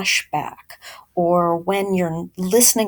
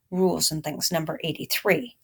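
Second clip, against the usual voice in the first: softer, lower aside repeating the rule number; quiet repeat; 3 semitones lower, 5 dB quieter, faster than usual. Shown as a demonstration. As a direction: murmur it again for the class. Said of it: "Rules and Things repeated".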